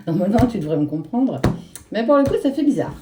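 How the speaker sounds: words slurred by a numb mouth; numb from the dentist. Real, not acted. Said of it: "J'ai la bouche un petit peu anesthésiée". (bouche engourdie après le dentiste)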